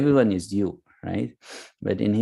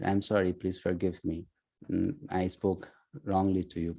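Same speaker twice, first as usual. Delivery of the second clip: soft, low, gentle apology; sweet apology; 3 semitones lower, 9 dB quieter than usual. Retold or imitated. Arjuna asks Krishna's forgiveness, sweet and hushed. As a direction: quietly plead for forgiveness, keeping it gentle. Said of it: "saying the sorry in such a sweet way".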